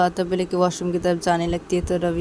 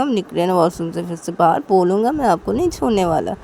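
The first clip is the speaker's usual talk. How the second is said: louder cheeky brother warning; mock threat from brother; playful threat; 5 dB louder than usual. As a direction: promise trouble, grinning.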